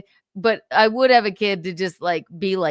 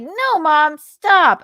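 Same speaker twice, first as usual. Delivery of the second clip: louder and higher, rising to a yell on stop; pleading loud no; 8 semitones higher, 7 dB louder, much slower than usual. Retold or imitated. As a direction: beg mom to stop in mock horror. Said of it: "We were like".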